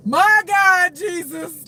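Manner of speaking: high, loud laughing exclamation; helpless burst of laughter; cracking up. Real, not acted. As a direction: cry out through real laughter. Cracking up at a thought.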